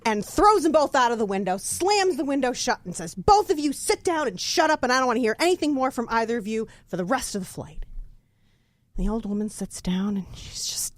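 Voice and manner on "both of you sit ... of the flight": stern scolding. Acted. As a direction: shut them both up firmly. Old woman scolds man and parrot.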